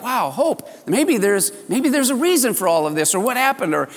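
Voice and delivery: a lightly acted rush of new hope; thrilled hope. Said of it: "gone from depression to being thrilled and excited".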